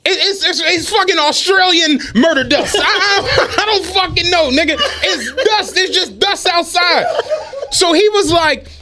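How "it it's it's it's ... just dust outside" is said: higher, laughing through the words; giggling while inventing dust types. Real, not acted. The speaker mocking his coworker with made-up dust, laughing.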